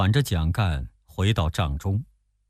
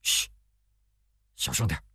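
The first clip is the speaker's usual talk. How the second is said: sharp shush, then low hushed order; hushed scolding; 4 semitones lower, 6 dB quieter than usual. A narrator's reading. General silencing a messenger beside the sleeping guest, hushed rebuke. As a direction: shush him urgently under the breath. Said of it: "周瑜呵斥他".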